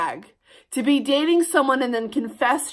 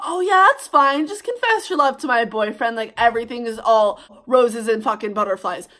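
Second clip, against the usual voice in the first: put-on sarcastic reply to the girl; faster than usual. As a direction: fake approval dripping with sarcasm. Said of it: "I'm gonna be like".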